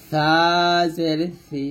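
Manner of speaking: সি light and thin, tongue tip on the teeth; light thaa demonstration; thin saa. Shown as a demonstration. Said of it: "পাতলা".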